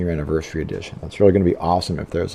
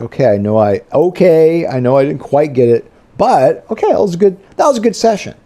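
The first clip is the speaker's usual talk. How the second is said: satisfied self-talk; 8 semitones higher, 5 dB louder than usual. Retold or imitated.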